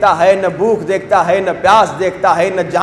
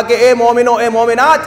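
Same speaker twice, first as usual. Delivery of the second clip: retold fiery rebuke. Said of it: "میں نے بڑا جلال میں آ کے کہا".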